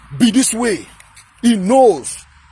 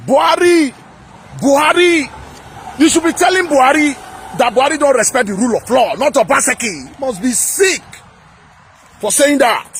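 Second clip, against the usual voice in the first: heated shouting; 5 semitones higher than usual. Real, not acted. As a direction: call out Buhari in indignation. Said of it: "So if I shout, I'm sorry".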